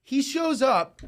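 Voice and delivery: ordinary delivery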